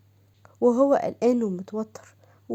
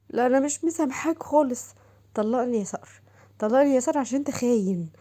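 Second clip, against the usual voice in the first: wife telling her husband to divorce her, pitched up; hurt wife voice; 3 semitones higher than usual. Acted.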